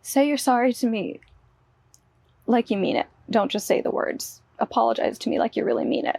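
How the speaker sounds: hammed-up husband's angry shouting; loud retold order to apologize; angry demand. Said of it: "he would just be screaming at me".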